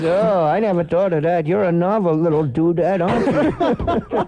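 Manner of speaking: lightly voiced comic character; a hint of an old comic's impression; Buddy Hackett. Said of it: "And Buddy goes".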